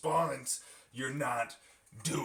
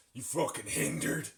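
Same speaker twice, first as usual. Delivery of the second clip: forceful insult; 3 semitones lower than usual. Shown as a demonstration. Streamer showing how the new insult has to be said, forceful. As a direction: punch out FUCKING HINDERED, rising at the end. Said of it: "have to say it like that".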